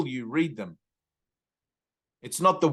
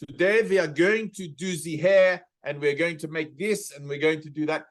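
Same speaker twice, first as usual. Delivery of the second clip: put-on light Italian or Maltese accent, v for w, z for th; Italian-ish accent. Teacher imitating a TV hairdresser's Italian-ish accent. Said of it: "he had an accent like Italian or Maltese".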